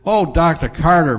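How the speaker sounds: a mother overwhelmed with joy; joyful gasp. Acted. Mother thanks the surgeon in a joyful gasp. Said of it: "Mother gasped in joy".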